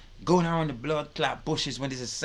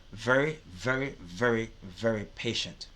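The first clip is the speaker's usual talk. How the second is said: lower, measured repetition; patient teacher; 4 semitones lower than usual. Shown as a demonstration. Contrasting the school teacher with the army one, patient. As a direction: let it settle lower, patiently.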